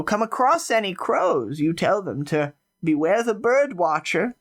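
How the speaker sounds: a sly granny dropping a friendly warning; lightly voiced old woman tipping off a young man; old woman NPC.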